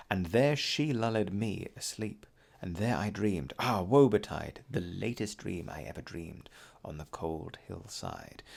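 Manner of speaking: slow, measured recital of a ballad; dramatic reading of a Romantic ballad; poem reading. Acted. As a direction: read the verse slowly, letting each line land. Reads poem aloud.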